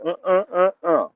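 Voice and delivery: high, halting "uh-uh" of refusal; refusing interjection. Acted. Protester turning down officials' offer to talk, refusing. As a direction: cut them off with high, repeated grunts. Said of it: "you will now say".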